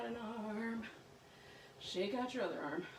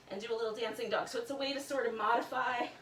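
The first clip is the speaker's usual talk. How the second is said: talking into sleeve; 3 dB louder than usual. Real, not acted. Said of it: "talking into my shirt here".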